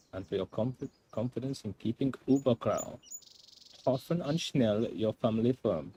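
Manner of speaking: put-on hammy German accent reading a letter; camp German accent. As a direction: read it in an over-the-top German accent. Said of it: "I can only do a camp German accent".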